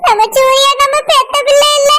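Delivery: halting, sob-broken worry; tearful. Acted. Mother fearing her adopted son will leave, tearful. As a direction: confess it through tears. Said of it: "நீ அழாத".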